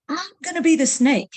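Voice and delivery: put-on stubborn child claiming the snake puppet. Boy to mom in puppet fight, loud insistent child.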